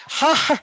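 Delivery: short burst of laughter; real laugh. Real, not acted. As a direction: giggle that breaks into ha-ha. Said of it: "कैसे हंस रही है".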